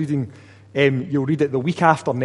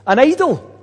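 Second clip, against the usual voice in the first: louder, higher scornful rhetorical question; mock the idea of comparing God with an idol; derision; 3 semitones higher, 5 dB louder than usual. Prophet scornfully challenging idol worshippers, with derision. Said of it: "hear the tone of derision in his voice".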